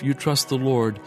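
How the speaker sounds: ordinary talk, nothing marked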